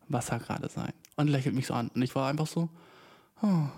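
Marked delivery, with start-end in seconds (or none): 0.1-0.9 softer, with a smile starting; lächelnd. Retold or imitated. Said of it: "jetzt fängt das Lächeln an". 3.4-3.7 small, touched "oh", re-enacted; ein bisschen berührt. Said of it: "So ein bisschen berührt".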